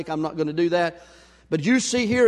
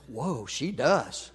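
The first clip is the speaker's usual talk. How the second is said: cashier agreeing; 7 semitones lower, 7 dB quieter, much slower than usual. Retold or imitated. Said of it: "she goes".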